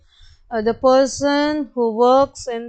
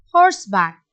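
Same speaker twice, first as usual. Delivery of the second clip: horseback dropped lower as the answer; 4 semitones lower, faster than usual. Shown as a demonstration. Teacher answering horseback low for the class. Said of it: "this is a two syllable word".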